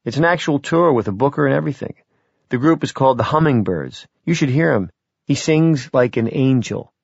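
a hint of youthful pride; enthusiastic daughter. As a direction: gush a little about his singing. Daughter gushes about singing group.

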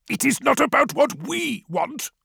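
high, thin elder's voice; old village elder. A narrator's reading. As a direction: voice the frail elder Tefra. Narrator voices elder Tefra.

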